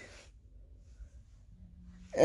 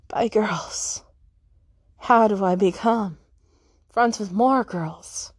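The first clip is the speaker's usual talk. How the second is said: whispered aside. Real, not acted.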